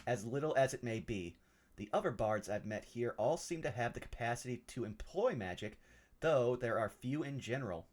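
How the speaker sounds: measured, formal reading of a letter; deliberate, literary narration; journal read aloud. Acted. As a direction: read it out like a scholar's musings. Reads a journal entry aloud in character.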